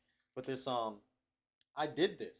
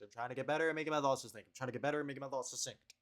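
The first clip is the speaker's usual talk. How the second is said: faster retry; 2 semitones higher, faster than usual. Shown as a demonstration.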